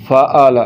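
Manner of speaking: फ़अल with a plain glottal stop, no ayn; wrong, hamza for ayn. Shown as a demonstration. Teacher repeating the faulty reading, hamza in place of ayn. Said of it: "जो कि गलत है".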